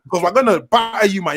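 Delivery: hype merchant. Real, not acted. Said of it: "I'm a hype merchant".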